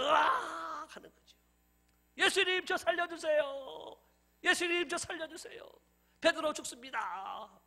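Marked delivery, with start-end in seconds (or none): 0.0-0.9 high acted scream while sinking; startled yell of someone falling into water. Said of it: "물에 빠지면서". 2.2-7.6 drawn-out hammed-up cries for help; 다급한 애원. Drowning Peter begs for rescue, acted.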